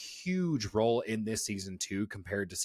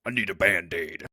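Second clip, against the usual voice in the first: mock childish spy; 7 semitones higher, 3 dB louder than usual. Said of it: "acting out a babyish spy".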